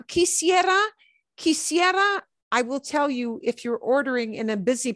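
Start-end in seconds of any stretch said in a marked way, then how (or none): 0.1-2.2 polite quisiera. Shown as a demonstration. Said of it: "quisiera is the absolute most polite".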